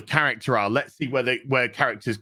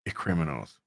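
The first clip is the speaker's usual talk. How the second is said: gruff Batman; 8 semitones lower, 6 dB quieter than usual. Retold or imitated. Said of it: "he was just like".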